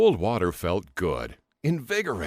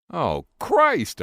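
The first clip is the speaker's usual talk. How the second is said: loud, higher "Oh, Christ!"; mild scream; 8 semitones higher, 6 dB louder than usual. A narrator's reading. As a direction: cry out in shock, held back. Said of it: "I screamed".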